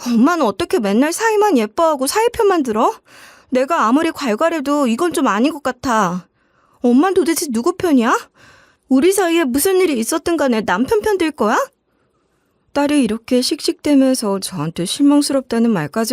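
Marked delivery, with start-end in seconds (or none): 0.1-11.6 higher, upset daughter snapping back at mom; angry daughter. Retold or imitated. Daughter on the phone blaming her mother, higher and angry. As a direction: play the hurt, fuming daughter on the phone, pitched up. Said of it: "딸이 갑자기 이런 식으로 화를 냈어요".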